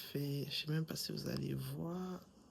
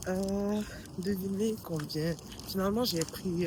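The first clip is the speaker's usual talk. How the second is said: shouting over wind; 4 semitones higher, 4 dB louder than usual. Real, not acted. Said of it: "il y a énormément de vent".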